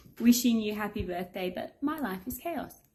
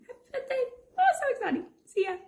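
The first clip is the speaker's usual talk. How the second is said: excited; much faster than usual. Real, not acted. Birthday video message sign-off.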